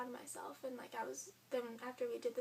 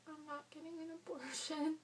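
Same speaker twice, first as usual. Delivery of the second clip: firm declaration; 4 semitones higher than usual. Retold or imitated. Decision at clinic.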